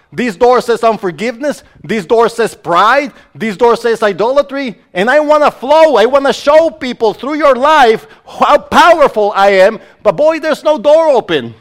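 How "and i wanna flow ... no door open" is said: lightly voiced God, raised pitch; a hint of God speaking, pleading. God telling the preacher he wants to flow, raised voice.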